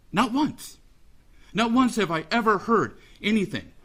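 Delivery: "once" hit high and hard; stress on once. Real, not acted. Father to the defendant, stressing once. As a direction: punch "once" with rising pitch. Stresses never hearing apology.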